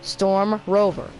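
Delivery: slow, flat robotic read; automated voice. Shown as a demonstration. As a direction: announce it like a machine voice. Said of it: "I sound like any automated voice thing".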